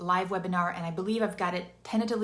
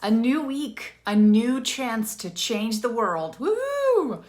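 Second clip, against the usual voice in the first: a little too loud; 3 semitones higher, 6 dB louder, slower than usual. Real, not acted. Coach opening a new week for the audience, too loud. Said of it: "I said that a little loud".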